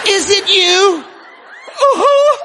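loud, high call to the crowd; single someone out, shouting. Real, not acted. Preacher shouting out to a congregation member.

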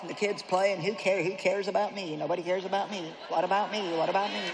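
a touch of whiny self-pity; mock moping at the family; self-pitying housewife. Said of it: "these self-pity fits".

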